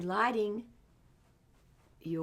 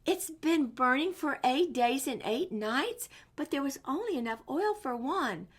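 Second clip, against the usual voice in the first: amazed, a bit louder and higher; 4 semitones higher, 3 dB louder than usual. Acted. An amazed man at the temple, amazed and raised. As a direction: marvel at it. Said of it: "he was so amazed".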